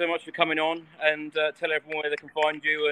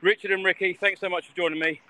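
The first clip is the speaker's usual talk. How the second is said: breathless after running; out of breath from the run; 2 semitones higher than usual. Real, not acted. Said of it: "I'm out of breath".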